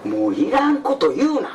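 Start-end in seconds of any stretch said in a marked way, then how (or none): 0.0-0.1 calling out. Acted. Shouting a warning across to the boat. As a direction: yell a warning to the geisha.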